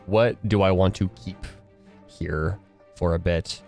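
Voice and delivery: ordinary talk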